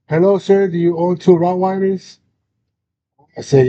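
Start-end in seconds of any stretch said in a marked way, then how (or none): 0.1-2.2 higher, lightly voiced official on the phone; phone caller. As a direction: imitate a polite official calling an owner. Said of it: "I get a phone call".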